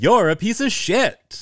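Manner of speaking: very loud, dramatic, swooping announcer voice. Speaker imagining a movie phone line, Moviefone guy voice. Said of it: "if the movie phone voice guy was like".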